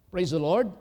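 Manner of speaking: shouted Praise the Lord with rising end; loud call. Real, not acted. Preacher calls out to the congregation, loud rising shout.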